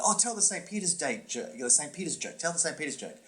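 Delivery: high-pitched, insistent pleading; mock pestering, starting high; eager begging. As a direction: imitate friends clamoring for a favorite joke. Friends begging him for the joke.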